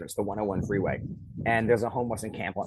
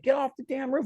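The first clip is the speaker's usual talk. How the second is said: angry order; 14 semitones higher than usual. Retold or imitated. Firefighter repeating order.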